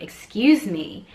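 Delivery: firmer, drawn-out 'excuse me'; insistent. Retold or imitated. Mom ignored by the yelling woman, insistent. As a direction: slowly insist on being noticed. Second try after being ignored.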